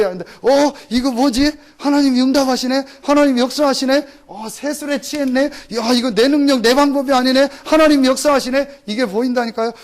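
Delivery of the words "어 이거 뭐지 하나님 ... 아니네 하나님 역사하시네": higher, amazed questioning; wondering surprise. Retold or imitated. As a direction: marvel as if discovering an answer. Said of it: "같은 어인데도 다르다니까요". (하나님 응답에 놀라며 감탄하는 말투)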